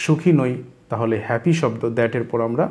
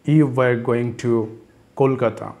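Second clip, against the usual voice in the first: very slow, word by word; slowed-down teacher model; slow drill; much slower than usual. Shown as a demonstration. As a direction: spell out each word slowly for learners. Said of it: "teacher drills phrase slowly".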